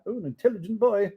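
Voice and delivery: quick, delighted praise; pleased Scrooge. Acted. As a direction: praise the lad.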